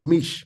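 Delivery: "Mish" closed on the sh; one-syllable "Mish"; joined syllable. Shown as a demonstration. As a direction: run the two letters together as "Mish". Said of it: "they joining this two together".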